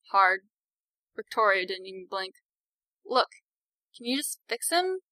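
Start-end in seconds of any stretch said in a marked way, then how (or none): 3.0-5.0 higher, pleading request. A narrator's reading. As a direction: plead with her sister to help. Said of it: "Victoria pleaded".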